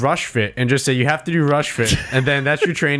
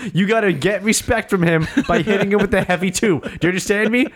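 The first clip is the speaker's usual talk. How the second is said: a bit higher, earnest mock coaching; pep-talk the fighter on the stool; lightly voiced corner coach; 6 semitones higher than usual. Cornerman lecturing fighter between rounds, mock-earnest coaching.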